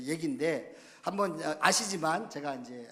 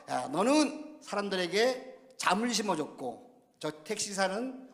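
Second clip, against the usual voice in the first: raised, emphatic acted rebuke; mock scolding; 4 semitones higher, 3 dB louder than usual. God compares pastor with taxi driver, mock rebuke. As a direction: tell him off with mock authority. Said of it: "하나님 앞에 되게 야단 맞았어요".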